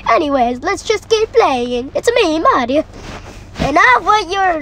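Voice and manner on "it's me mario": Mario voice. Retold or imitated.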